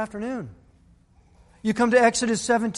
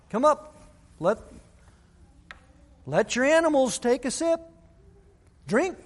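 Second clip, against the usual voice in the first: excited calling; 6 semitones higher than usual. Acted. Calling animals to drink.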